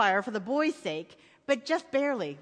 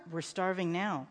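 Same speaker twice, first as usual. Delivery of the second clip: low, softened father's reply; sober father; 5 semitones lower, 5 dB quieter than usual. A narrator's reading. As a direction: answer the child quietly and soberly. Father answers his son.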